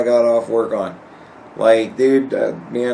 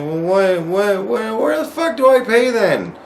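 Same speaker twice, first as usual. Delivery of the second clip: rising in pitch, sputtering in disbelief; retelling an outraged question, pitch shooting up; retold outrage; 9 semitones higher than usual. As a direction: climb higher and higher with each what. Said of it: "I'm like".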